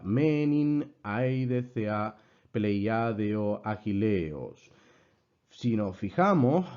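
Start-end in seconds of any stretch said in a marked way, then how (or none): 0.0-4.7 slow, measured Ancient Greek line, word by word; Greek verse recitation. Shown as a demonstration. Teacher reading the Iliad's first verse as example, measured recitation. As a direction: recite the verse with long, held accented vowels. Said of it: "el primer verso de la Ilíada".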